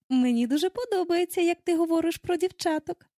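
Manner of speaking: high-pitched, pleased approval; approving. A narrator's reading. Wendy is flattered by Peter's praise of girls, approving. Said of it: "схвально мовила вона".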